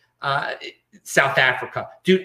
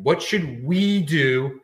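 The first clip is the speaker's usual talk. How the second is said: slow, drawn-out "what should we do"; slow mock worry; slow quoted question; much slower than usual. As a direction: drawl the question mockingly. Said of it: "people talk about our strategy".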